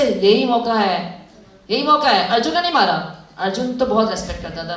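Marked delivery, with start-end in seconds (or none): 0.0-2.3 slow, weighty urging of the moment; Krishna urging Arjun. Retold or imitated. Krishna telling Arjun this is the chance, urgent. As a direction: press him that the time is now. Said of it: "भगवान ने क्या बोला अर्जुन से".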